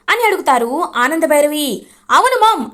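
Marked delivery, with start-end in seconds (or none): 2.1-2.7 sharp high shout at mother, louder; shouted yes. Acted. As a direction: yell it back defiantly. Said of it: "గట్టిగా అరుస్తాడు దర్శన్".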